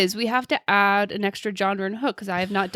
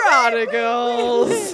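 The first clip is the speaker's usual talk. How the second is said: dramatic announcer; much slower than usual. Pretend. Dramatic slow intro.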